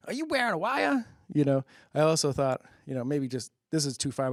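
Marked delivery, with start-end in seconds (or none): 0.1-1.1 guy's suspicious question. Retold or imitated. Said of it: "the guy goes".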